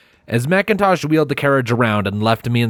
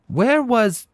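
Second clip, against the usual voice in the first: booming princess voice. A narrator's reading. Luna's sudden booming greeting.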